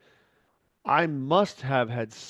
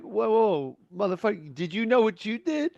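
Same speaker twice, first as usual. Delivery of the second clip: outraged friend; 9 semitones higher than usual. Retold or imitated. Offended friend's outraged comeback.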